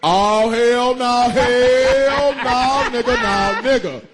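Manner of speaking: slow, drawn-out mock bouncer; lightly voiced guard shutting him down; security guard voice. Comic retelling a security guard scolding him, lightly voiced mock bouncer. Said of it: "and I went".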